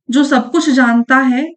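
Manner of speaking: measured teacher's dictation; slow dictation. Shown as a demonstration. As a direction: spell out the clue slowly for the class. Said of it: "इस वाक्यांश के लिए सही".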